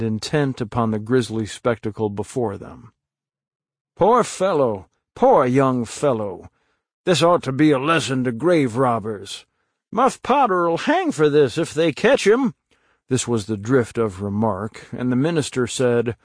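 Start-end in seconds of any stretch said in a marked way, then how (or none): 4.0-12.5 gossiping townsfolk. Acted.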